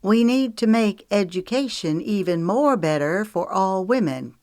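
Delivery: half-hearted beauty queen recital; mock pageant answer. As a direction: lightly parody her own stage answer. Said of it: "repeating her faux pas".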